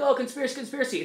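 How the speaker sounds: mock scoffing "conspiracy". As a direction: sneer it like a dismissive skeptic. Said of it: "I know people are like".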